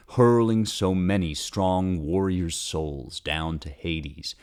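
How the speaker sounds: slow, solemn verse reading; epic poem reading. Shown as a demonstration. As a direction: declaim it like an epic bard. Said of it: "Here's my translation".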